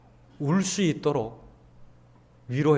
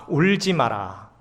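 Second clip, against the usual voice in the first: gentle quote; slower than usual. Acted. Pastor quoting Jesus to the grieving mother, slow and tender. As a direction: lay the words down gently, slowly.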